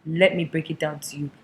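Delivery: earnest confession. Acted. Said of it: "They sat their mothers down and said".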